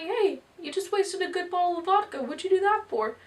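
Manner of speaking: high-pitched mock outrage; indignant American. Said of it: "Then the American's like".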